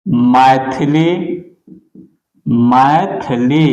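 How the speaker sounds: मैथिली said slowly, twice, with a rise; slow teacher dictation. Shown as a demonstration. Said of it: "जैसे हम लेते हैं".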